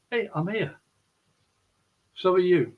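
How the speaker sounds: gentle reassurance. Retold or imitated. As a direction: bring it down a notch, say it gently. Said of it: "bring it down a notch and just gently say".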